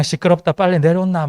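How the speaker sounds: loud blunt Gyeongsang dialect; Gyeongsang man's voice. Acted. Jesus hurries Zacchaeus down, gruff loud Gyeongsang dialect. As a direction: bark it out like a brusque Gyeongsang guy. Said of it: "경상도 사나이 같은 그런 느낌으로".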